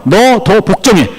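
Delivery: slow, deliberate acted order; stern command. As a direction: space it out as an absolute demand. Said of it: "철저한 복종을 얘기합니다".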